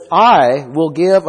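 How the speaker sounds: "I" hit loud, then "will give" eases off; stress on I. Shown as a demonstration. Preacher reading out God's promise of the fountain, stress on "I". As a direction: lean hard on the first word "I". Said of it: "has an emphasis to it".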